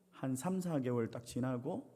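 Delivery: ordinary talk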